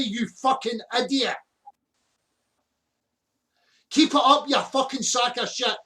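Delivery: furious swearing outburst; swearing tirade. Real, not acted. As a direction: rage and curse him out. Angry swearing rant at caller.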